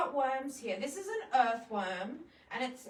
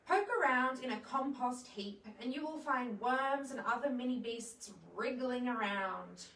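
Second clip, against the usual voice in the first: put-on reading to children. Reads a children's book aloud.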